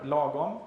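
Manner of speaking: "lagom" said slowly the Swedish way, LAH-gom; Swedish pronunciation. Shown as a demonstration. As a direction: pronounce "lagom" as a native Swedish word, stress on the first syllable. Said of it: "in Swedish we have this, uh, uh, word".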